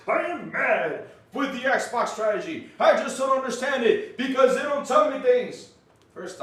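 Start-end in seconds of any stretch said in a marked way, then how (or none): 0.1-2.7 mock Greg. Mocking Greg's words.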